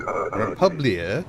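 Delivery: drawn-out British delivery of the pun; retry the joke in a put-on British accent. Shown as a demonstration. Gamer retelling a pun that didn't land, in a British accent. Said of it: "Maybe if you say it with a British accent".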